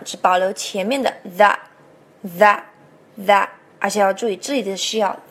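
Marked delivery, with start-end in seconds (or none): 1.2-3.5 "the" as "that" without its final t; "tha", tongue between the teeth, no t; dropped T. Shown as a demonstration. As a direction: repeat "the" as an open, unfinished "tha". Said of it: "that的T我们不念了".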